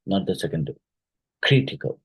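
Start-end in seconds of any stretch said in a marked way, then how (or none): 1.4-2.0 "Critical" with a high-pitched first syllable; stress on first syllable. Shown as a demonstration. Teacher showing where the stress falls, first-syllable stress on "Critical". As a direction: hit the start of "Critical", raised pitch. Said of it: "the stress is in the first syllable".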